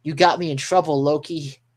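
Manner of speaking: mildly pissed-off mock complaint; Luffy. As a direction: blame him with a touch of acted anger. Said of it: "Luffy's freaking getting pissed at Loki".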